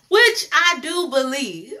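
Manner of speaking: slow, loud words through real laughter; laughing. Real, not acted. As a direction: laugh it out as you agree. Laughs at her own agreement.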